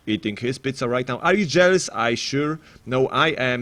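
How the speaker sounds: usual speaking voice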